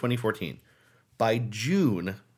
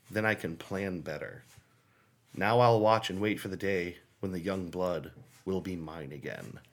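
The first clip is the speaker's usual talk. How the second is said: creepy letter reading; 2 semitones lower than usual. Acted. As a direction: read it like a menacing stalker letter. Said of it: "understand how creepy this is".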